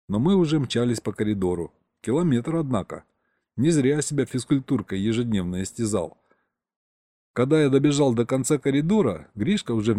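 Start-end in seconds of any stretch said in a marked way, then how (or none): none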